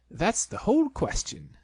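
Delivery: a lightly voiced busy Rabbit.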